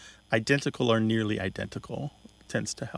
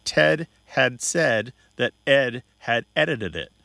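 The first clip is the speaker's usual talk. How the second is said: slow careful reading; 4 dB louder, slower than usual. Shown as a demonstration. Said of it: "is the sentence".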